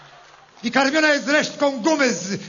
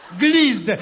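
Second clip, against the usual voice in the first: mock horrified cry; 3 semitones lower than usual. Mocking the Dutchman, a laughing mock yell. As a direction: cry out glizdę in hammed-up disgust.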